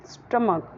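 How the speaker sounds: "स्टमक" said alone, falling, final K; "स्टमक" with short uh vowels and final K; correct pronunciation of stomach. Shown as a demonstration. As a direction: say "स्टमक" as STUM-uk. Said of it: "क्या बोलना है?".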